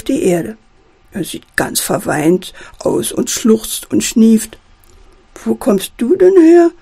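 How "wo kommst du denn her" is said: hohe, laute, erstaunte Frage; überrascht und viel höher fragen; erstaunt. Acted. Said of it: "fragt Puppe Gerda erstaunt". (Puppe Gerda fragt den fremden Teddy erstaunt)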